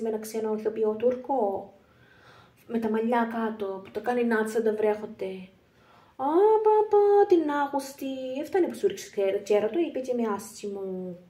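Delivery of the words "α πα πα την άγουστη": high, loud scandalised "Α, πα, πα"; shocked gasp. Acted. Shocked at gossip.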